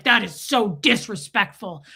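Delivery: slow, emphatic mock indignation; retold anger. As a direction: imitate an offended man scolding, mildly. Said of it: "This guy was really mad at me".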